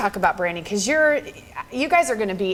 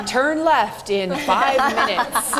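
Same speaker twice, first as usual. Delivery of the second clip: mock GPS voice; 3 semitones higher, slower than usual. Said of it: "so you can say".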